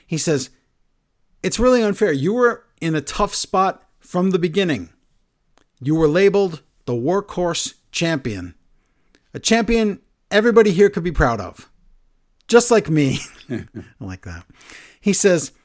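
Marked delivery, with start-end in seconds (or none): 1.4-13.2 imitating Gunther. Gunther's promo retold.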